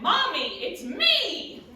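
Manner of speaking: put-on high, loud little-girl call; small child. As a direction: squeal it like a three-year-old greeting mom. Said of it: "And the child saw me".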